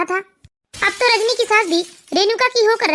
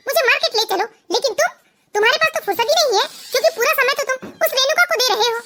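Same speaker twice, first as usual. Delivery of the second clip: higher, heated, scornful tirade; angry accusation; 4 semitones higher than usual. Acted. Wife berating husband for neglecting her, angry. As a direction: let the jealousy spill over.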